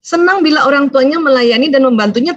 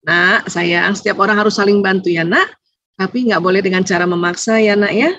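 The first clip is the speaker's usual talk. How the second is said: gentle advice; 5 semitones lower than usual. Retold or imitated. Mother gently giving advice.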